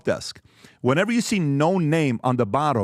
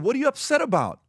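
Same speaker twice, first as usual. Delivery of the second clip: much higher, puzzled asking; raised disbelieving question; taken-aback question; 11 semitones higher than usual. Retold or imitated. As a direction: boss asking why his new hire is upset. Boss confronting upset employee.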